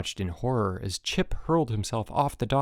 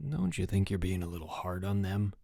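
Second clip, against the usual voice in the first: softer, lowered voice; undertone; 3 semitones lower, 7 dB quieter than usual. A narrator's reading. Frank quietly questioning the counselor. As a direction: keep it under your breath. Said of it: "he asked in an undertone".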